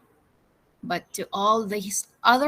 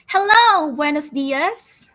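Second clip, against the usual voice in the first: a much louder, higher "Hello" that slows on "buenos dias"; shouted greeting; 6 semitones higher, 6 dB louder than usual. Acted. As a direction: hail the visitors from the pier. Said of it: "people shouted".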